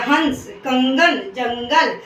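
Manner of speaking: हंस, कंगन, जंगल slowly, with the nasal ं sounded through the nose; anusvara through nose. Shown as a demonstration. Teacher demonstrating anusvara, हंस, कंगन, जंगल slowly with nasal ं. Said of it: "नाक से हमारा जो है स्वर निकलता है".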